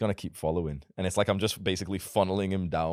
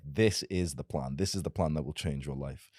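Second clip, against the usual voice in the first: certain, commanding; 3 semitones lower, 4 dB quieter than usual. Shown as a demonstration. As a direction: lay down the plan, no room for doubt. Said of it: "You tell people".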